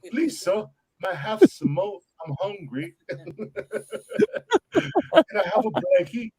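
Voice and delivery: bad British orphan accent, pleading; a poor mock Cockney orphan begging for food; terrible British accent. Podcaster mocking an orphan begging, bad British accent. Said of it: "that was a terrible British accent".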